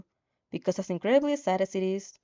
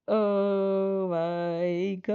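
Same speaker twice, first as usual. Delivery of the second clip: dismayed; much slower than usual. Real, not acted. Streamer reacts to bad news.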